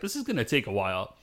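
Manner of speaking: to herself. Acted. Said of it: "to herself".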